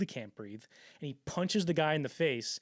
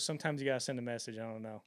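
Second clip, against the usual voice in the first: casual muttered aside; 4 semitones lower, 5 dB quieter, faster than usual. Retold or imitated. Cameron shrugging after violence.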